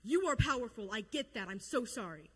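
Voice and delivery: hammed-up, emphatic apology; imitating a desperate bargainer begging God; mock pleading prayer. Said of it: "Jonah prayed out to God and was like".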